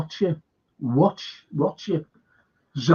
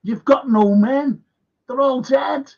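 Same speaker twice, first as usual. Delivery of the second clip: mock angry rant; 5 semitones higher than usual. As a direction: throw the accusation like a politician laying into him. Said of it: "Vance who said".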